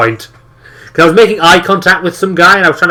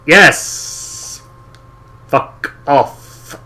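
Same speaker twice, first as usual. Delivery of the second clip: mock dismissal; much slower than usual. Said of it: "Didn't actually say that, but it's like".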